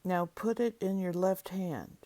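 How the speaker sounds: measured step-by-step prompts with long silences between; guided imagery reading. Acted. Leader guiding listeners through an inner peace process, deliberate instructional reading. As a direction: read each prompt out clearly, then leave room to feel.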